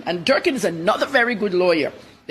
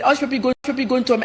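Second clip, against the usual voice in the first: lightly imitated Arab accent, a bit higher; a hint of an Arab accent, pitched up; imitating Arab accent; 4 semitones higher, much faster than usual. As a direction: quote the Gulf reporter in a mild Arab accent. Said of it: "I'm speaking with his Arab accent".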